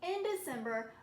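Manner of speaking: loud, emphatic month heading; announced month. A narrator's reading. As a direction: call out the month like a title.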